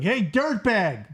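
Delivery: mock New York accent, drawn out slowly; Christopher Maloney. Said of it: "Christopher Maloney's like".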